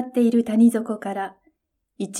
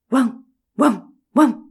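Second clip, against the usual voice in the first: barking; 2 semitones higher, 4 dB louder than usual. A narrator's reading. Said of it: "と吠えました".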